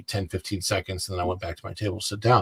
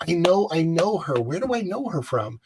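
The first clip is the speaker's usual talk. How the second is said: higher-pitched replay of inner wondering; puzzled recognition; 7 semitones higher than usual. Retold or imitated. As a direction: re-enact trying hard to place someone. Acting out puzzled recognition of woman.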